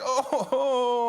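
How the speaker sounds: imitating a hurt kid's yelp; a hint of a crying boy; mock child whimper. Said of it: "he's like".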